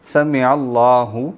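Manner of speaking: سمیع اللہ slow, with a short plain vowel, not drawn out; correct pronunciation. Shown as a demonstration. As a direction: model سمیع اللہ slowly for the student. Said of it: "ہو نہیں". (آہستہ درست ادائیگی)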